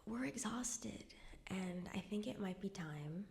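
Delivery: hushed whispered confession of exhaustion; weary plea. Retold or imitated. Mom telling grandmother they are exhausted, hushed whisper. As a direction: whisper it, worn out and careful. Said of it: "she tells her".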